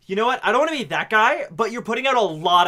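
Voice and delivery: mock guru voice. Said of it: "He's like".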